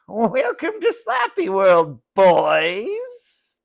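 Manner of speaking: high, slow, loud gloating puppet voice; sinister dummy. A narrator's reading. Slappy gloating over the boys, high slow dummy voice. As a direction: savor it like an evil puppet.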